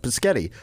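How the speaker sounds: "Pusketty" for spaghetti, puh-SKET-ee; friend's mispronunciation. Retold or imitated. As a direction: say "Pusketty" with P and S swapped. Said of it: "that's how I say it".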